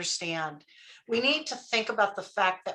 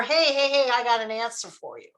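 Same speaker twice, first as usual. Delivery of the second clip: eager interrupting; 2 semitones higher than usual. Acted. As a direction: butt in with a quick mock-eager answer. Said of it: "thinking about what's the next thing".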